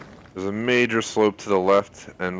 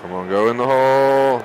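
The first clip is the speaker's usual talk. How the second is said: urging the ball; 3 semitones higher, 5 dB louder than usual. Real, not acted. Urging the putt to drop.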